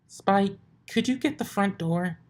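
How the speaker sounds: high, loud call across the room. A narrator's reading. Twilight calls from behind a pile of books, loud. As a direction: shout up to Spike.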